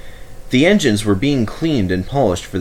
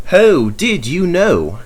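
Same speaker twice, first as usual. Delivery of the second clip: surprised question; 9 semitones higher, 4 dB louder, slower than usual. A narrator's reading. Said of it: "Duck asks, amazed".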